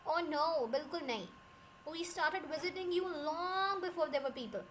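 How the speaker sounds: lightly mocking, stretch the words out slowly; mild sarcasm. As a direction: answer with a touch of drawn-out sarcasm. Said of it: "फिर बड़ा sarcastic answer देता है".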